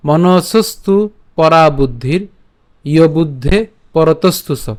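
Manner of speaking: measured, chanted reading of a Gita shloka; Sanskrit verse recitation. Shown as a demonstration. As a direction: recite each half-line with a pause, like a teacher. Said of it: "তো আজকের শ্লোকটি হলো".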